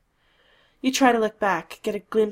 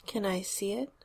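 sweet; 4 dB quieter than usual. Acted. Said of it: "I'll ask sweetly".

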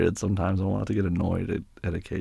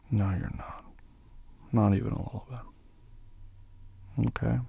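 whispered reassurance; 3 semitones higher, 4 dB quieter, slower than usual. Acted. Soothing an upset partner.

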